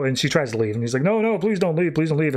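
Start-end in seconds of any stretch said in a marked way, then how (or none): 1.0-2.3 mock-urgent plea; pleading. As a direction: plead lightly in a retold voice. Superman begs her to stay.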